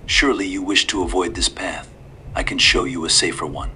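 lightly voiced old man, calm and sly; a hint of a courteous old stranger. A narrator's reading.

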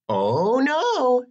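high princess protest. A narrator's reading. Princess refusing the dragon's open door, high protest.

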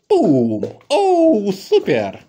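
high squeaky burst of praise; squeaky praising a dog. Real, not acted. Praising dog after jump.

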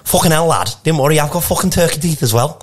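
put-on rough stab at a comedian's accent; Paul Smith accent. Retelling meeting Paul Smith, hesitant mock accent. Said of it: "this is my first accent attempt".

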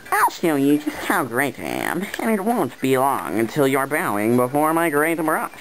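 boastful character voice; right character voice. Shown as a demonstration. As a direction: boast like a vain artist. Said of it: "wrong voice".

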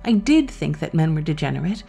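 lightly voiced devil, swinging from high reproach to easy talk; urbane Satan, amused. Satan lectures the dead man on angels and men, amused. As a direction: hold forth like a self-satisfied fiend.

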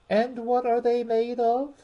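high, eager question; great curiosity. A narrator's reading. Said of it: "in a tone of great curiosity".

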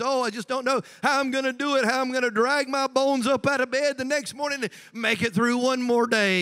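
imitating a weary complainer; mock woe-is-me. Preacher imitating someone barely making it, mock-weary moaning. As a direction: drag out the complaint in mock despair. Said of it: "somebody kinda talk like that".

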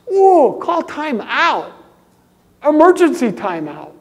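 ooh, call time out, drawn out slow and loud; mock alarm. Real, not acted. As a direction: sound the alarm like a referee stopping play. Preacher calls time out.

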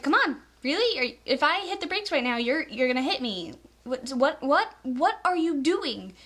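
annoyed, rising disbelief; frustrated at a tailgater; exasperated. Retold or imitated. Mocking tailgating driver, exasperated.

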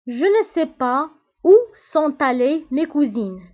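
very slow French model sentence; teacher spacing out the words for learners; slow example reading. Shown as a demonstration. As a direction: read it out slowly, phrase by phrase.

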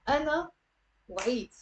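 أنا, pause, then وعيت in one short beat "w'iit"; one syllable. Shown as a demonstration. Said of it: "it's one syllable".

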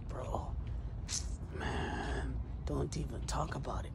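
hushed imitation of an upset man; subdued. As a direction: say it softly, as if it still hurts. Wheelchair man's downcast reply, acted.

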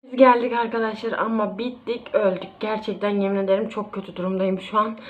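out of breath from the walk back; panting after hauling the shopping; gasping for air. Real, not acted. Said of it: "Nefes nefese kaldım". (nefes nefese)

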